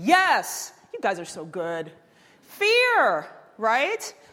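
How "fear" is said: loud, high-pitched shout. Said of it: "I'm sorry, I'm shouting".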